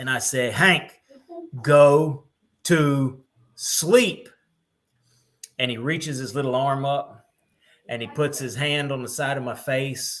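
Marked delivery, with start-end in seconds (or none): 0.5-4.3 very slow, firm, raised stern fatherly voice. Father retells telling his little son to go to sleep, put-on stern dad voice. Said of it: "in my stern dad voice".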